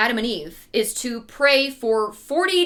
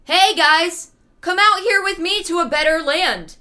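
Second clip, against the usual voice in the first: mock friendly stranger; 5 semitones higher than usual. Satan disguised as an old man coaxes Adam and Eve out, mock chummy. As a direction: lure them out like an overeager con man. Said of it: "is like".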